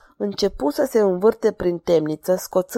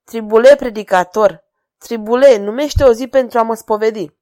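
loud mockery; 2 semitones higher, 6 dB louder than usual. King mocks the pleading jester.

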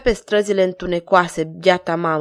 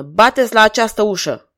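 louder, clipped command to knock; firm order; 5 dB louder than usual. Acted. King orders the officer to knock, commanding. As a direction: give it as a flat royal order. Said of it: "ordonă".

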